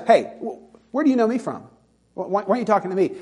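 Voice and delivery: Nathanael. Acted. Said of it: "when Nathanael says".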